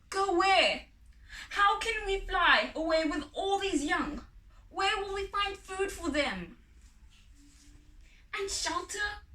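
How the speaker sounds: high, loud, frantic questions; panicked objection; mother bird protesting to father in alarm. Acted.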